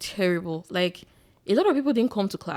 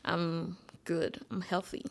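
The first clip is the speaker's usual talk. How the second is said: whispered; 11 dB quieter, much slower than usual. Real, not acted. Unvoiced aside after saying she's better.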